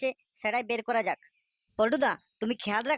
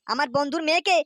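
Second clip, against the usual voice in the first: much louder, higher angry shouting at the son; furious father yelling; 3 semitones higher, 8 dB louder than usual. Acted. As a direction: roar for the boy to come out. (রেগে আগুন বাবার চিৎকার)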